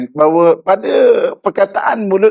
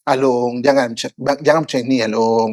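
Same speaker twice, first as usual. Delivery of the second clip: put-on low, soft plea to a child; tender, lowered parental persuasion; gentle coaxing; 6 semitones lower, 3 dB quieter than usual. Shown as a demonstration. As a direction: coax your child gently, keeping the pitch down. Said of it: "kan maksudnya kan lembut".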